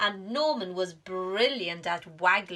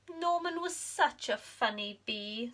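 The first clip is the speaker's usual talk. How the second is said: softer wistful sigh; sighing bees; 3 semitones higher, 4 dB quieter than usual. Acted. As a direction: miss their friend. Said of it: "sighed the bees".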